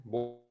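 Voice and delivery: "Bu" with a voiced B, like a Spanish boo. Shown as a demonstration. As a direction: say "Bu" with B, not P. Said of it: "bu es cuando asustamos a alguien en castellano". ("Bu" con B castellana)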